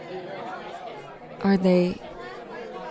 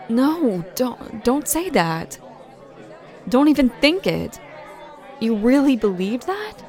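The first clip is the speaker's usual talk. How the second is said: earnest reassurance; 3 semitones higher than usual. Acted. Urgent reassurance of love.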